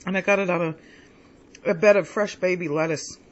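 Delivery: words round a bite of food; talking while chewing; mouth full. Real, not acted. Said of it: "Talking with my mouth full".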